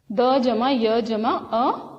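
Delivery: द जमा य जमा अ very slowly; slow spelling. Shown as a demonstration. Teacher assembling द्य slowly for children. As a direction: build द्य piece by piece slowly. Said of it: "इस वर्ण के लिए देखिए".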